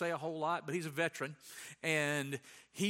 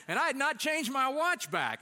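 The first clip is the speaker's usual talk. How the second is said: laughing; 8 semitones higher, 5 dB louder than usual. Real, not acted.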